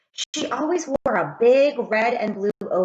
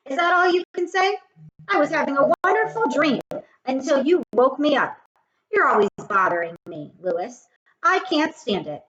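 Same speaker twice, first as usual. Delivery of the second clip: mock annoyed girl; 5 semitones higher than usual. Sherry scolding Lewis for waking her. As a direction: scold him in a playful huff.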